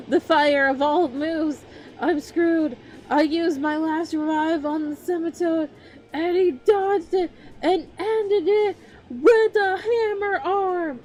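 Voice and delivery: high, loud, half-crying panic; excited. Real, not acted. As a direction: wail over the losing battle. Tense Pokemon battle recap.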